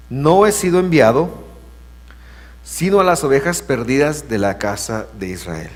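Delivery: a lightly voiced, firm Jesus answering the crowd; firm declaration. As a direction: declare it plainly and firmly. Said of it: "él dice esas palabras".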